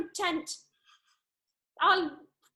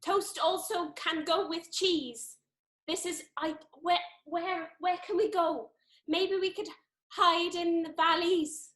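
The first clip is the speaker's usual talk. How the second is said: put-on South Wales accent; 3 semitones lower than usual. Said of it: "something that I can say in this accent".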